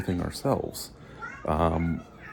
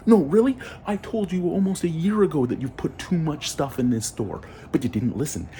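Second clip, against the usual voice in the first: sarcastic outrage; 9 semitones higher than usual. Real, not acted. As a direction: shout the told-you-so. Sarcastic told-you-so rant.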